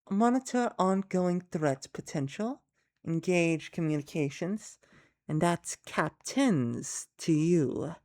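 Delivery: elegant voice. Acted. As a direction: speak with measured elegance. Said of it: "this is the elegant one".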